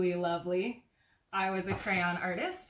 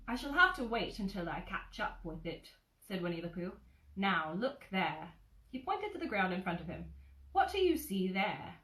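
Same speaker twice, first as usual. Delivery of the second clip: put-on gentle storybook narration for a child; cozy read-aloud of a childhood book; bedtime story reading. A narrator's reading. Reads Winnie the Pooh aloud.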